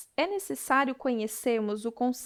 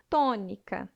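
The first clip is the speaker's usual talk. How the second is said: "tônica" with the stress on TÔ; stress on first syllable; 4 semitones lower than usual. Shown as a demonstration. Teacher giving a proparoxytone example, "tônica" stressed on TÔ. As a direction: make TÔ the strongest syllable of "tônica". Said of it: "A sílaba mais forte é a palavra tom".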